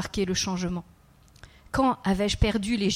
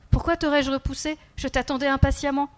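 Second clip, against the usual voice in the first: put-on lightly raised child voice, earnest; a small boy confiding, slightly higher; child's voice; 5 semitones higher than usual. The child telling the kneeling man about his dreams, lightly voiced child.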